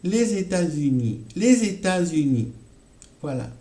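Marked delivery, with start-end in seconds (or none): 0.0-2.5 "États-Unis" with a z after les and a t into Unis; liaison demo. Shown as a demonstration. Teacher showing students the liaison in "les États-Unis". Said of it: "et enfin".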